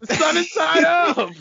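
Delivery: put-on high, slow country-accent echo; hammed-up country exclamation. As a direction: stretch it out in a mock country accent. Echoing the country accent joke.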